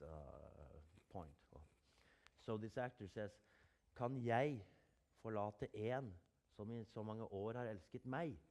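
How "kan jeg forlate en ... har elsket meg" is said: actor's odd emphasis on "jeg", "en" and "meg"; stagey line with "jeg" leaned on hard and broken into chunks; imitated misplaced stress. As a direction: mimic an actor punching "jeg", "en" and "meg", pausing after each phrase. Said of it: "this guy emphasizes".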